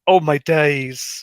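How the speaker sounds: slow North London "Oh my days"; London accent. Retold or imitated. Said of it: "as good as an accent you're gonna get from me".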